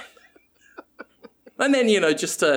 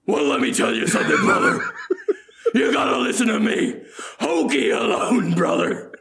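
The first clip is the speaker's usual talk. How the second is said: mock wrestler growling brother with a laugh; wrestling promo voice; 7 semitones higher than usual. Hyping Hoagie to the others, a hammed-up wrestler shout. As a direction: hype it up like a wrestler cutting a promo. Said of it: "wrestler-style promo".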